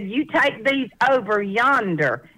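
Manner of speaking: slow country woman repeating herself deliberately. Retold or imitated. Country woman repeats herself to puzzled Californian, slow imitated drawl. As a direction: spell it out slowly, lightly mimicking a Southern woman. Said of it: "little sweet little country woman".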